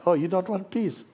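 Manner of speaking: high, loud, incredulous question; mock surprise. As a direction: act taken aback by the refusal. Acts out surprised offer of peace.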